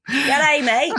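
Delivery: mock Australian accent. Australian accent being mocked.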